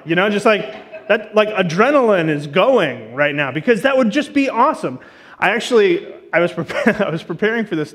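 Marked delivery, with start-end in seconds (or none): 0.3-5.0 a touch of real excitement; excited. Real, not acted. Pastor imagining a visit from a famous singer, excited. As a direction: let the excitement lift your voice at the end. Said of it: "I'm getting excited thinking about it".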